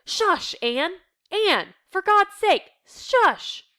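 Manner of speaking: high, loud angry hushing; furious shushing. Acted. Dussel shushing Anne in anger, high and loud. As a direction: hiss the hush at her in fury. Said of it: "Dussel sits up in bed, furious".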